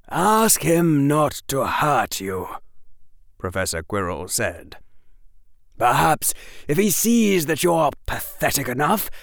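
cold amused mockery; Quirrell's mocking voice. A narrator's reading. Quirrell introduces Derek to Harry, taunting.

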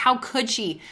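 replaying her own hurt disbelief; how could she, huffed out quickly; indignant inner voice. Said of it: "I was like".

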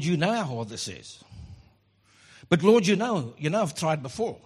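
a hint of whiny excuse-making; lightly voiced reluctant believer. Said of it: "We always find the but".

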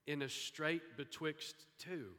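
a hint of an English accent, drawn out slowly; slow, lightly put-on English accent. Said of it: "say it with an English accent".

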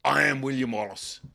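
rallying Wallace. Retold or imitated. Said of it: "But he says".

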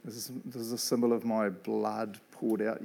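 softly spoken, solemn Jesus; low, slow-paused words of an imagined Jesus; voiced Jesus. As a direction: lightly voice Jesus addressing one follower. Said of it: "imagine Jesus coming up to you and saying".

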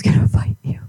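fast, breathy words through laughter; laughing. Real, not acted. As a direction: whisper it while cracking up. Retelling the call while laughing.

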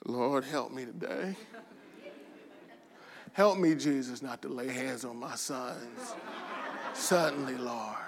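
hushed, pleading aside to God; quiet comic plea for patience; inner prayer. Retold or imitated. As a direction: pray softly under your breath, mock-desperate. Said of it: "And in my mind, I'm like".

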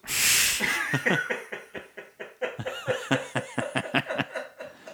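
silent shaking laugh; wheezing giggle after a burp; breathy laugh. Real, not acted.

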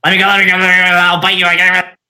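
high, loud, frantic little critter pleading; squirming lizard. Acted. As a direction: squeal to be let go like a trapped lizard. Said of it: "Lizard sort of squirms, sort of just like".

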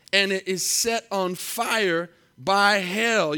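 slow, weighty reading of Scripture. Acted. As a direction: lay each phrase down slowly for the congregation. Reads scripture slowly to congregation.

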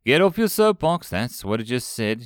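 mock him with a sneer. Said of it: "sneered Jenkins".

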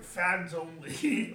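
slow, lightly voiced Yoda. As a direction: drag it out like a little Yoda. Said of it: "like I'm Yoda".

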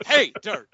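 "Hey, dirt" with HEY punched high and loud, then falling; same botched reading, "hey" shouted out; imitating shifted emphasis. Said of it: "he would change the emphasis around".

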